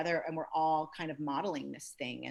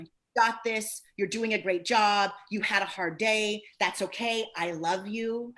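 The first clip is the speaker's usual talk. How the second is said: sweet self-talk; 3 semitones higher, 4 dB louder, slower than usual. Shown as a demonstration. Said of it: "I talk to myself so sweetly".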